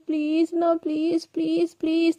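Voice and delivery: acted, drawn-out begging; wheedling, repeated plea; pleading. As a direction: coax with stretched-out pleases. Girlfriend begs for ice cream.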